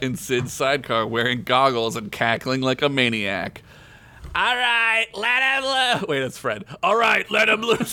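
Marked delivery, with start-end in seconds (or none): 4.3-6.1 high shouted command; shouting. Acted. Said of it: "Fred shouted". 6.8-7.9 shouting. Acted. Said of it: "Fred shouted".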